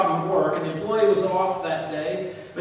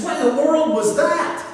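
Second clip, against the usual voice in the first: alarmed; 7 semitones higher, 5 dB louder than usual. Retold or imitated. Boss alarmed by loud noise.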